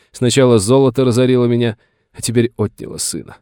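high, agitated self-justification; aggrieved old master. A narrator's reading. Master justifies himself about the sawmill, aggrieved and agitated. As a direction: lament every misfortune with rising grievance.

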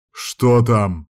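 mild snarl. Acted. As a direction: snap the question at him. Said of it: "вызверился Сайфер".

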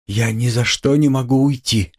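high, desperate plea without a real whisper; near despair. A narrator's reading. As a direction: insist in a high, distressed voice. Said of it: "шептала она Разумихину чуть не в отчаянии".

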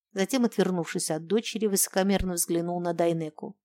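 plain reading voice

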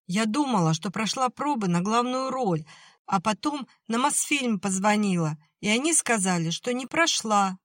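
put-on high, upset young girl's voice; a girl close to tears explaining; tearful girl. A narrator's reading.

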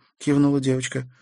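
ordinary delivery, nothing marked

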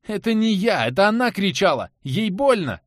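panicked pleading. Acted. Anton pleads with Karat, panicked protest. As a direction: beg him to believe.

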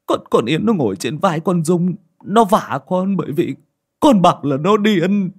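bawling son begging his father; crying like a child. A narrator's reading. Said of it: "khóc tu tu như đứa bé".

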